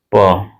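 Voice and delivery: प as a low, open "paw"; teacher demonstrating प as P; phonic P sound. Shown as a demonstration. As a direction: sound out प, not "pee". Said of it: "पी नहीं होगा जी".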